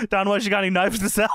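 laughing mock Nash. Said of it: "and says".

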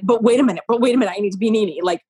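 a hint of jealous panic; frantic retold panic. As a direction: rush it like panicking. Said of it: "I'm like".

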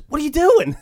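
high, loud yelled question; postal worker shouting. Retold or imitated. Postal worker catching kids at the chute, shouting. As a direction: shout it at the kids caught in the act. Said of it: "he goes".

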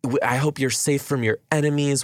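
mock-sweet concern, anger held under it; fake sweet through teeth. Girlfriend playing along with the swindler, sweetly hiding her anger. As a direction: sound caring while seething inside. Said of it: "biting through her teeth".

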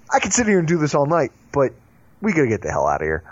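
announcer-style outro with swooping pitch; podcast host sign-off. Real, not acted. Host thanking the guest and teasing the next show, announcer-style sign-off. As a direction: punch up the key phrases, then drop at the ends.

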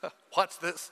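soft, amused call; mock gleeful onlooker. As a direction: invite the others to watch, chuckling. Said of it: "you say".

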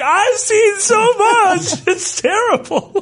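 high, slow mock-tragic voice with a laugh; hammed-up high weary confession; weary hunter. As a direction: ham up the haunted veteran. Voicing weary hunter with whiskey.

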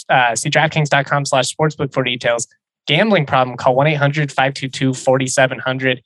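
fast legal disclaimer. Acted. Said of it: "reading the same disclaimer for months".

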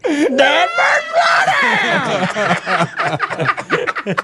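high goofy exclamation; Greg impression. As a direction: squeal it out high and silly. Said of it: "Have I ever said dad burn?".

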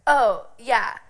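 a touch of breezy shrug; white girl shrug. Retold or imitated. Bluffing to the check-in girls, light breezy shrug. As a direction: toss it off like it's nothing. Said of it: "did the white girl shrug".

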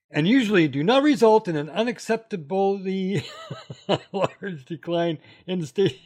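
giggles breaking into the read; laughing while reading. Real, not acted. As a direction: fight the laughter.

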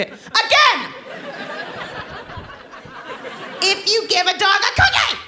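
put-on be the kid insisting on the book; bossy toddler. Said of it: "daughter demanding the book".

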